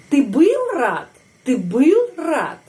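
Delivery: slow question, был high and drawn out, then falling on рад; question stress on был. Shown as a demonstration. Teacher demonstrating a past-tense question, stressed intonation. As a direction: stretch был up high to ask, let рад drop. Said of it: "di sini pada kata kerja был".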